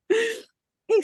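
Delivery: high, laughing singsong hey; teasing high call; playful hey. Real, not acted. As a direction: sing it out to get her attention.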